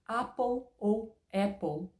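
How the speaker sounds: Apple slow in two accents. Shown as a demonstration. Teacher comparing accents of apple. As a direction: contrast the two apples slowly. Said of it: "várias pronúncias".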